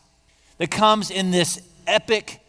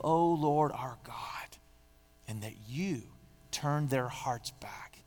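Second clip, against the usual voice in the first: softer, earnest prayer that sinks to a whisper; hushed prayer; 5 dB quieter than usual. Acted. Elijah's prayer at the altar.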